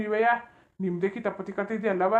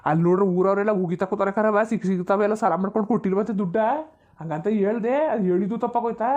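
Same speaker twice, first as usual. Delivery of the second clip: louder, pressing hard on every phrase; heated complaint; 4 dB louder than usual. Acted. Grandfather loudly defending himself to his daughter-in-law.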